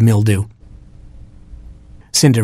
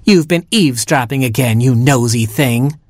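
snarling; 3 semitones higher than usual. Acted. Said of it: "snarled Mildew".

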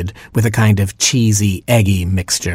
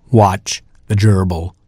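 slow, lazy slug warning. A narrator's reading. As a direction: warn them without any hurry. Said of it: "In a lazy voice".

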